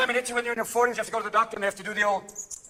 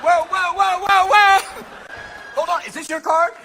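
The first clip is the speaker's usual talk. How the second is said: loud, rising showman whoas; magician doctor; 6 semitones higher, 5 dB louder, slower than usual. Acted. Gynecologist magician revealing a trick, hammed-up showman. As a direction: ham up a stage magician's reveal.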